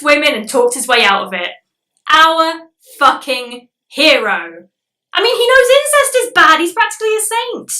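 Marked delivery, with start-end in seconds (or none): 2.1-4.7 slow, dripping sarcasm; sarcastic. Real, not acted. Sarcastic tribute to Donnie. 5.1-7.7 high, sarcastic fake admiration; mock praise. Real, not acted. Ironic praise of Donnie.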